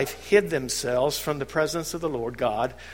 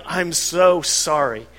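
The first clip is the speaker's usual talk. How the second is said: slow apology; 4 dB louder, slower than usual. Pretend. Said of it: "and saying".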